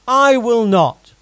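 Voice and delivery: a forceful vow that opens loud and settles; loud declaration. Acted. Peter vowing to Jesus he won't deny him, loud then firm. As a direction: declare it, starting with a loud cry. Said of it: "Peter declared".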